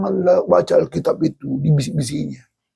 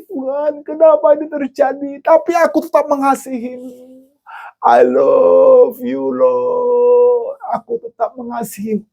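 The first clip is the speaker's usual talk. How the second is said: much higher, strained, breaking cry; anguished Job; 10 semitones higher than usual. Acted. Job tells God he still loves him, anguished.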